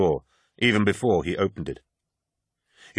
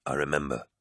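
sighing; 5 semitones lower, 7 dB quieter than usual. Acted. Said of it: "sighed Loken".

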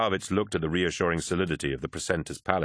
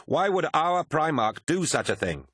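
high-pitched, protesting question; incredulous; 9 semitones higher than usual. A narrator's reading. Swordsman questions his comrade about the betrayal, incredulous. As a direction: demand an explanation, voice lifted in disbelief. Disbelieving reply to news of betrayal.

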